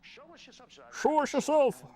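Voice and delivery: high, slow drawn-out summoning call; mock ghost summon. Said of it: "quoting movie scene".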